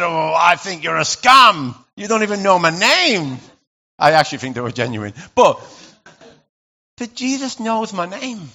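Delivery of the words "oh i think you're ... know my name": retold retort. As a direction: snap back at the caller, half-joking. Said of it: "I said".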